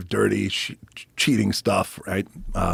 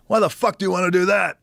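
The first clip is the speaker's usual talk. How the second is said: high, louder disbelieving question; incredulous yell; 11 semitones higher, 4 dB louder than usual. Retold or imitated. Pat Patterson on the phone, high and disbelieving. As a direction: act it like he can't believe it.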